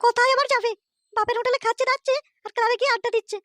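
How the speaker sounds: high put-on young woman's voice, complaining; a weary wife griping about her husband; daughter's voice. Daughter complains to her father about her drunken husband.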